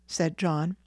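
plain reading voice

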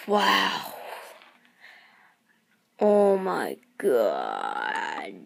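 slow, awestruck, fading to a whisper; delighted amazement. Real, not acted. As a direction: let the amazement take your breath. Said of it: "I'm just gonna spend the whole video like this".

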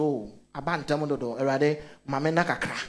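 soft, low, drowsy prayer; sleepy plea. Retold or imitated.

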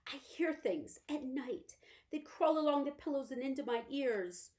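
sharing a secret terror; frightened invalid mother. Acted. Mother tells of night fears.

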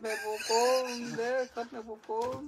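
high, drawn-out but soft imitation; mock cry, restrained. Dad echoing how she cried, restrained mock wail. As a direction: imitate a wail without raising the volume. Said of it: "Gritaba, gritaba".

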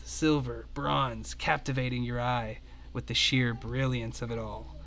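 calm descriptive narration; game master scene setting. Acted. Game master describing the treasure cavern to players, calm narration. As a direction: paint the room for the players.

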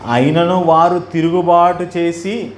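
slow, measured verse reading; scripture reading. Acted. Preacher reads Isaiah's verse to congregation, slow scripture reading. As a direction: read the verse out slowly, word by word.

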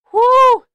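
high, loud whoop; excited whoop. Real, not acted. Letting out excitement after trailer.

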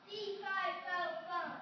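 loud, booming giant chant. Acted. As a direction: boom it out like a giant. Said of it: "a booming voice saying".

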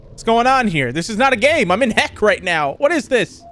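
rising, high-pitched alarm; alarmed protest. Real, not acted. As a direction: build from bewildered protest to a high plea. Trapped in hellish game level.

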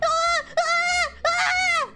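repeated high drawn-out wails. Pretend. Player mobbed by other avatars, high wailing. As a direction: wail "ah" high, each one held.

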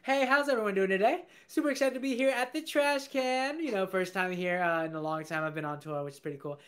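lightly played raccoon working the crowd; raccoon stand-up comic. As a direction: open a stand-up set with pep, stretching the punchline. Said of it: "A raccoon on a trash can".

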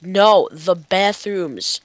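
slow, stretched "No, the bathrooms"; exasperated repeat. Retold or imitated. Player imitating frustrated directions, slowly stretching "bathrooms". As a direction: drag out "bathrooms" to spell it out. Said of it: "Like, I'll be like".

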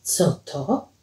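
soft, low, voiced murmur; hushed question. Paweł asks Alicja what happened, hushed. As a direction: ask it low and slowly.

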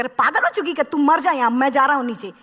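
exasperated sherpa, lightly voiced; annoyed sherpa. Sherpa refusing to film at the summit, mock exasperated. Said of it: "तो वो तो परेशान हो जाएगा".

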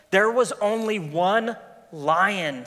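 slow, solemn lion voice; lion Aslan. Acted. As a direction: speak slowly as the great lion. The lion speaks.

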